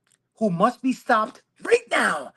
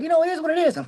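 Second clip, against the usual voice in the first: higher, louder mock of wife's line; wife's way of saying it; 10 semitones higher, 4 dB louder, much faster than usual. Husband quoting his wife's catchphrase, higher and louder. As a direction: imitate the wife's resigned phrase. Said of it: "she's like".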